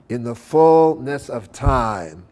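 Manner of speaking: "fullness" and "time" drawn out slowly, the rest light; accents on fullness, time. Shown as a demonstration. Lecturer shows two accents in the phrase, stretching "fullness" and "time". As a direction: lean long on "fullness", then on "time". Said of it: "there's really two accents in there".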